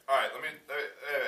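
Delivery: playful over-keen pitch; mock eager. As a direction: jump in loudly to win back a bored class. Scrambling for bored students' attention.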